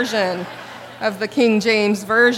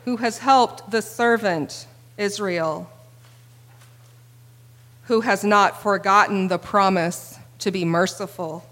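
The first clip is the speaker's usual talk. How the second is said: scripture reading. Acted. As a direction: read it reverently.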